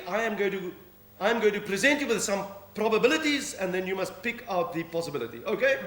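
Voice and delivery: lightly voiced police sergeant answering the phone; policewoman on the phone. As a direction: play the duty sergeant taking a call. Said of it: "Sergeant Minnie".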